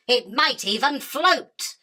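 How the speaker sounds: It might even float, slowed down and leaned on; slow gloating jibe. Acted. Spider taunts the prophet with her retort, slow and gloating. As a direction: savour every word like a victory lap.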